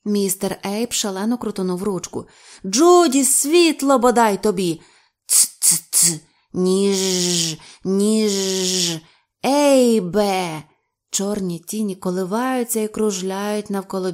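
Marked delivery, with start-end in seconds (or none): 2.7-4.8 loud, high cursing demand; exasperated shout. A narrator's reading. Frantic cursing shout for light. 5.3-10.6 clicks and drawn-out monotone words; eerie creature voices. A narrator's reading. Creatures mimic words they heard.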